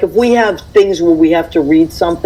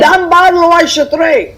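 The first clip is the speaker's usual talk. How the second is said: much higher, slow hammed-up order; imitating elders; 10 semitones higher, 3 dB louder, slower than usual. Woman mimics relatives ordering the ashtray dumped, hammed-up. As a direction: drawl out a bossy family command. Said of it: "So it'd be like".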